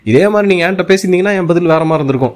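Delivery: quick, lightly stern retort; touch of aggression. Retold or imitated. Host warning a contestant about how they spoke, lightly aggressive. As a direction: imitate a mild flash of temper, hurried. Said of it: "லைட்டா அப்படி ஆக்ரோஷத்தை touch பண்ணிட்டு".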